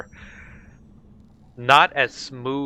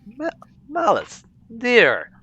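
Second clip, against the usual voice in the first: hesitant, much higher Southern drawl on Malice, dear; halting, high Southern accent attempt; 12 semitones higher, 3 dB louder, slower than usual. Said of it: "I haven't done my southern accent".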